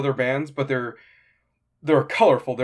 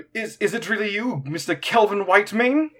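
higher-pitched, hesitant awed question; starstruck fan; 7 semitones higher than usual. Acted. Quintus approaches the famous fighter for an autograph, starstruck. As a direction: stammer in awe before your idol. Fan meets idol in roleplay.

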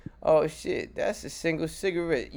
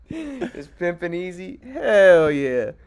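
sketch quote voice; 3 semitones higher, 5 dB louder, much slower than usual. Retold or imitated. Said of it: "Chappelle show".

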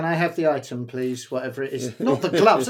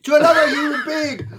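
crying; 4 semitones higher, faster than usual. Real, not acted. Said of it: "Eyes are streaming".

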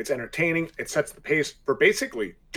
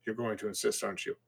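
soft, sighing resignation; much softer, resigned question; 9 dB quieter than usual. A narrator's reading. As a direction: give in quietly with a sigh. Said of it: "and then sighed".

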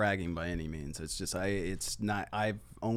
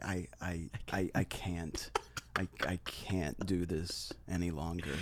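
mock despair; 4 semitones lower, 9 dB quieter than usual. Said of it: "And I'm like".

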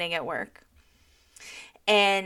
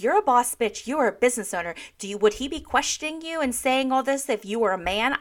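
lightly acted tipsy hype-up speech; a touch of indignant bar-bathroom cheerleading; drunk girl pep talk; 3 semitones higher than usual. Host retelling her pep talk to an upset woman, lightly hyped. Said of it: "I'm giving this drunk girl bath-, bar bathroom talk".

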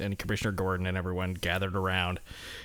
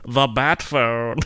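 slow, loud and blunt; blunt loud announcement; 2 semitones higher, 7 dB louder, much slower than usual. Retold or imitated. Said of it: "He's just like".

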